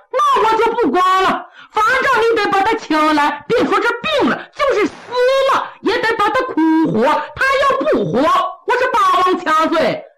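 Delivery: high, excited and pushy; insistent. Acted. Kou Zhun insisting Zongbao must bring Mu Guiying, high excited push. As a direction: push it hard, voice climbing high.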